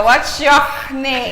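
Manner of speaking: slow, laughing "What's your name" with a carioca tinge; carioca English. Retold or imitated. Teacher imitating a carioca student, slowly. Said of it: "Então ela falava".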